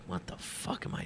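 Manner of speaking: breathy whisper, asking himself in disbelief; whispered self-doubt. Retold or imitated. Alone in a hostel room, whispering to himself in despair. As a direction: whisper it like you can't believe you're here.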